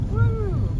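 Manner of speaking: high delighted whoop; excited woo. Real, not acted. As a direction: cheer at the plane. Giant airplane landing nearby.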